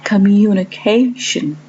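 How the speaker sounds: communication with CA stressed; stress on the fourth syllable. Shown as a demonstration. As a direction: lean on CA in communication. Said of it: "syllable stress on the fourth part".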